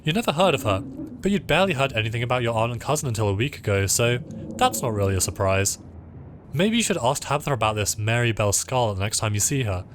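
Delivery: lightly voiced game narration; story narration. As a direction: read the story text aloud, evenly paced. Reads game narration aloud.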